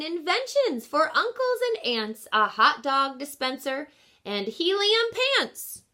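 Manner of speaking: lilting storybook read-aloud; gentle picture-book narration; reading to children. Acted. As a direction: read the rhyme to a class.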